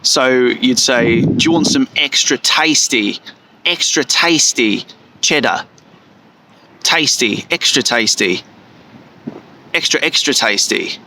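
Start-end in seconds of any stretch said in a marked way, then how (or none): 1.2-11.0 a hint of Australian vowels, "extra tasty" said with a long A; lightly mock an Australian shop assistant with a long A in "tasty"; light Australian accent. Shown as a demonstration. Offering cheese at an Australian counter, light Australian accent. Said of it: "that sounds more Australian".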